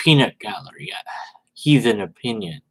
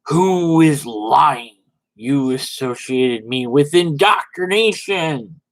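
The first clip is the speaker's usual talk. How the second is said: mock indignant voice. Mocking Red Dead's indignant reply. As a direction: act wounded and defiant.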